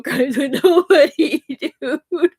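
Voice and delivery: high, loud tearful protest; wailed, crying insistence; breaking into tears. Real, not acted. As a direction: let the denial crack into real sobbing. Breaks down while protesting innocence.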